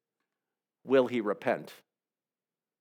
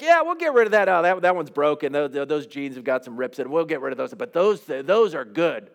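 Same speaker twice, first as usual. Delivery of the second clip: breezy mock excuse-maker picking what to keep; a hint of a careless king shrugging it off; Saul making excuses. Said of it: "In other words, like".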